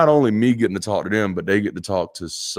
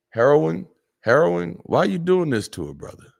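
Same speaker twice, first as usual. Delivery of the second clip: mock disbelief; 9 semitones higher than usual. Real, not acted. Reacting to donor's name.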